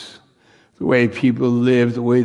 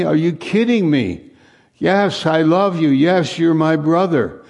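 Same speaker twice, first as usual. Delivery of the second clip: higher, astonished questions; amazed disbelief; 7 semitones higher than usual. Acted. New believer asking God in wonder, higher and amazed. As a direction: sound stunned that you are loved.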